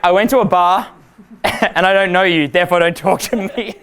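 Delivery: mocking German accent through laughter; German girl accent. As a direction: imitate a German girl, amused. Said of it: "What do the German girls say?".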